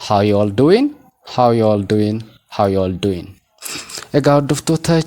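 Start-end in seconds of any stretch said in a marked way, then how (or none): 0.1-3.3 "How you all doing" repeated, linked, ending doin'; silent g repeats. Shown as a demonstration. Teacher drilling learners, reduced and linked. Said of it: "Gaa kana dubbisuu hin qabnu".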